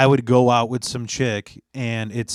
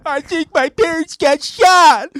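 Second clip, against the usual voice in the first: Ben Stiller; 11 dB louder, slower than usual. Retold or imitated. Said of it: "watching Ben Stiller. He's like".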